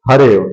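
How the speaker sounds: हरेव said as one word, the अ silent; teacher's model reading of हरेव; joined sandhi reading. Shown as a demonstration. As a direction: run हरे and व together as हरेव. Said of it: "क्या पढ़ेंगे?".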